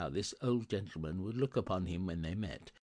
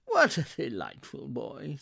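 mildly delighted, higher and louder; 5 semitones higher, 6 dB louder than usual. Acted. Scrooge admiring the boy in the street, delighted. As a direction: exclaim it with delight.

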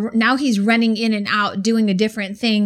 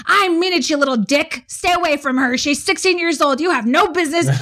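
higher, mock-angry grandpa rant; hammed-up grandfather tirade; grandpa ranting louder; 6 semitones higher than usual. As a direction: imitate grandpa scolding the boy. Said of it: "my dad is getting louder and louder".

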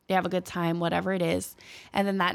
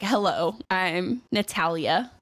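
Natalia introducing herself; much slower than usual. Retold or imitated. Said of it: "She's like".

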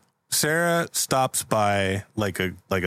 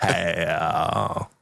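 lightly voiced Western drawl; 3 semitones lower than usual. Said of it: "sounding like Brad now".

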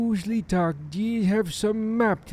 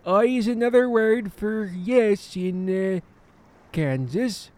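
put-on pirate accent. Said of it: "you sound a lot like a pirate".

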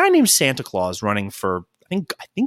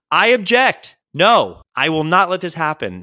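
mock wedding objection; 4 semitones higher, 4 dB louder than usual. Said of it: "all I've ever wanted is one of those".

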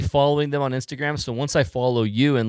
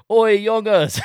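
loud, high-pitched hail; blurted shout; 11 semitones higher, 9 dB louder, slower than usual. Retold or imitated. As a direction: holler it to get the group's attention. Retold blurted hail to Dutch group.

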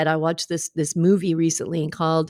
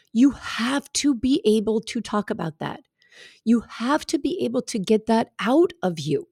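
impassioned, deliberate plea; passionate; 4 semitones higher than usual. Real, not acted. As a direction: speak with heartfelt conviction, weighting the words. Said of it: "I sound really passionate about that right now".

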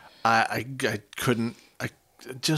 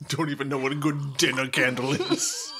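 snooty; 3 dB quieter than usual. Pretend. Mock snobbery about candles.

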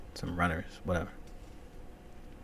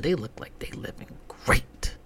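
mock whisper; 4 semitones higher than usual. Mocking the commercials.

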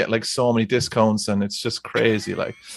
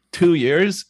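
slow, higher, questioning bluff; imitated unsure guess; 7 semitones higher than usual. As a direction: imitate making up an answer on the spot. Bluffed, guessed answer retold.

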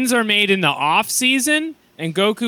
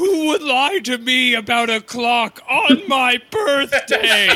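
indignant; 7 semitones higher, slower than usual. Retold or imitated. Indignant Vegeta quote.

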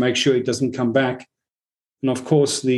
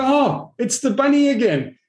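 much higher, a squeaky hammed-up gasp of discovery; mock surprise; 12 semitones higher than usual. Teacher acting out spotting his ego again, in a high mock-surprised voice. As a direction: play the fool spotting the bunny again, pitch way up. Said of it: "And then you go".

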